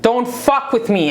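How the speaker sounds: slow, swaggering boss talk; slow, cocky I-own-this delivery; boss energy. Retold or imitated. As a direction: own the room, unbothered. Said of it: "a rapper's boss energy".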